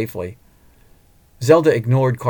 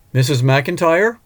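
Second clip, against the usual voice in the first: calling out; 6 semitones higher, 6 dB louder, slower than usual. Acted. Driver calling from outside.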